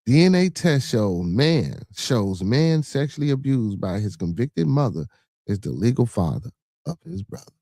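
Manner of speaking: very slow, careful reread; slow second read of the headline. Real, not acted. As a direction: read it again slowly. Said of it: "Read that shit one more time".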